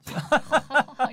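big, loud burst of laughter. Shown as a demonstration. Co-host shows how a big laugh sounds, loud laugh. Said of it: "큰 소리로 웃을 때 이런 소리가".

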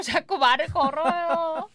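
loud, rising mock exasperation, last word drawn out; exasperated complaint. Reading a wife's message about her husband, hammed-up exasperation.

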